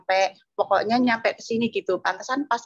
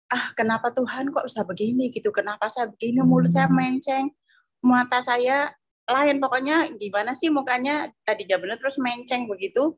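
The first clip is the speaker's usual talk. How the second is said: higher, anguished questioning of God; distressed cry to God; 5 semitones higher than usual. Retold or imitated. Woman seeing her crooked face, crying out to God in panic. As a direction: relive the panic at the mirror, pleading upward.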